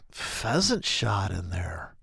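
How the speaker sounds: hushed aside. Real, not acted. Ranting about a shotgun intruder.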